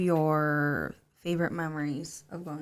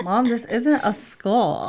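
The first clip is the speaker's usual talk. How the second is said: put-on slow, emphatic kid protest; lightly voiced puzzled little kid; protesting child; 4 semitones higher, 5 dB louder, much slower than usual. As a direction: imitate a small child objecting, drawn out. Mother voices her doubtful child.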